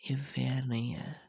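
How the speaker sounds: whispered, mock-hurt complaint; sulky whisper. Boyfriend rebuffed by girlfriend, whispered mock complaint. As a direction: whisper it like a pouting protest. She says no to him.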